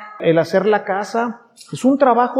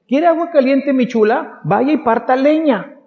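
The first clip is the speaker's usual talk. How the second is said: put-on old-time bossy elder; 6 semitones higher than usual. Old-time elder orders woman.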